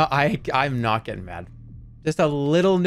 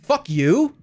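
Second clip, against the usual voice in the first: higher, sharp irritated outburst; annoyed curse; 9 semitones higher, 4 dB louder than usual. Real, not acted. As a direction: snap it at the boss. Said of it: "These are all questions I'm asking".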